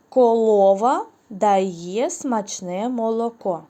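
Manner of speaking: «Колова» with an l instead of r, slow and loud; silly baby-talk mistake; mispronounced word. Shown as a demonstration. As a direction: lisp «Колова» like a small child, slowly. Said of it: "Корова, звичайно".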